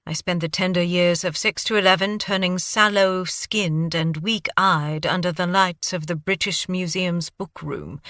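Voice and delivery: lightly British, wry and rueful; a hint of British accent, explaining his turn to crime. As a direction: recount it in a cultured British accent. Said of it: "Your accent".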